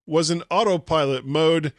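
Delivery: measured, emphatic podcast news read; host reading a tech story aloud. Real, not acted. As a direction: read out the report in deliberate phrases.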